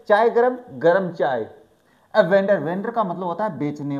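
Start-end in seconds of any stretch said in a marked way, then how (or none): 0.1-1.5 loud sing-song call of a tea seller; tea vendor call. Shown as a demonstration. Teacher mimics a platform tea seller calling loudly. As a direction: call out like a railway chaiwala. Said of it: "तो वैसे ही है".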